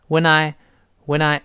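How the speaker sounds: "When I" run together as "whe-nai"; linked sounds. Shown as a demonstration. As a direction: slide the n of "When" into "I". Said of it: "when 和I自然会连到一块儿". (“When I”连读，n连到I上)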